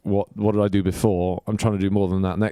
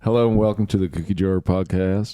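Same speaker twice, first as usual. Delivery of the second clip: tentative southern accent podcast intro. Shown as a demonstration. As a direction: try out a southern accent, unrehearsed. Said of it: "southern accent".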